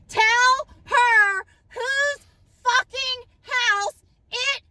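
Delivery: high, loud, slow and tearful; crying out at the mother, loud and high; crying demand. Retold or imitated. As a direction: break down demanding the truth.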